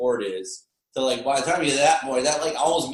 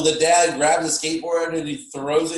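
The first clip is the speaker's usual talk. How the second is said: ordinary talk, nothing marked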